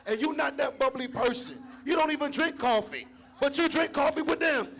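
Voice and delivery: high, bright customer-service voice; chirpy professional greeting voice; white voice. Retold or imitated. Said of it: "talking in your white voice".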